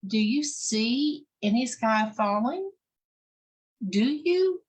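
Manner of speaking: rising, pointed challenge; challenging turkey. Acted. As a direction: press the goose to admit it.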